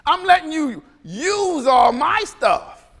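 slow hammed-up parental shout; mock parent yell. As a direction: drag it out like a fed-up parent. Mock scolding kids, parent voice.

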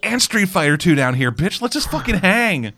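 lightly voiced chill bro; laid-back bro voice.

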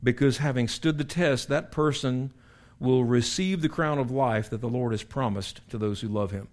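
slow, deliberate reading of the verse; measured pulpit reading of scripture. Acted. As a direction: read it out like holy writ. Preacher reads scripture slowly.

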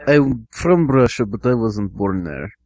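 put-on Russian accent; Russian-accented interview reply. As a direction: answer as a Russian job applicant. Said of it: "Russian, Russian accent".

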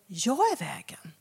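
slow intimate whisper; hushed Jesus's words. Shown as a demonstration. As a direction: breathe the words like a secret. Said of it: "Men Jesus säger".

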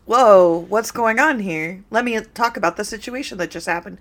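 imitated movie-character commentary; mock astonishment. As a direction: send up a stagey "whoa" reaction. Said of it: "No one in real life ever goes".

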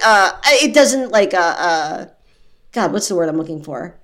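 sluggish hungover speech. Real, not acted. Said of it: "I'm so hungover".

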